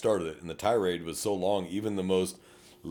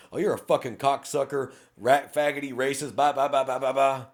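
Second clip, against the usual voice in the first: higher, angry ranting driver; mock furious tirade; 6 semitones higher, 4 dB louder than usual. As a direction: rattle off insults like a furious driver. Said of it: "he went on a five-minute tirade".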